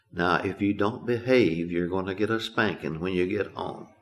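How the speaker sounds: very soft, hushed, low-key voice. Recalling how she squatted beside the fussing child and warned in a very soft voice. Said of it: "tell me in a very soft voice".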